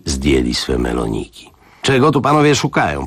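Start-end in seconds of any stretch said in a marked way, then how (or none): 1.8-3.1 raised voice. Acted. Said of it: "Wciąż mówiła podniesionym głosem".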